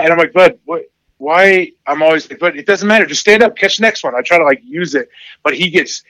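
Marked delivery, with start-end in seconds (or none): 0.3-4.1 higher, bright encouraging push; pep up a kid who just dropped it; coaxing dad. Retold or imitated. Dad retelling how he pushes his son on, higher.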